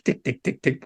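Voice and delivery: quiet, even repeated ticks; imitated clock ticking. Storyteller marking the hours going by, quiet ticking. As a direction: mimic a clock counting away. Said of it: "like this".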